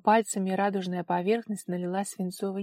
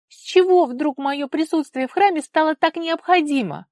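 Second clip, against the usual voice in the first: much higher, loud protest; indignant wail; 9 semitones higher, 11 dB louder than usual. A narrator's reading. Daughter protesting to her father, high and loud. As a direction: complain shrilly.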